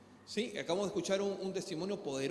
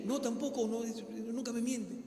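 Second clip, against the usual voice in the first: tearful mother; 4 semitones higher than usual. Retold or imitated. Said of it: "Y llorando así en lágrimas decía".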